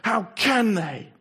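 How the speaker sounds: Lucy hurt and disbelieving; tearful. A narrator's reading. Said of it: "tears streaming down her cheeks".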